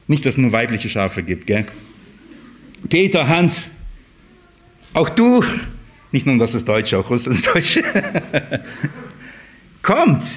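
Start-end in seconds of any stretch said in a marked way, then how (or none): 2.9-5.4 calling out names. Acted. Shepherd calls sheep by name. 7.0-9.8 laughing. Real, not acted. Joke about names, laughs. 9.8-10.2 calling out. Acted. Shepherd calls the flock.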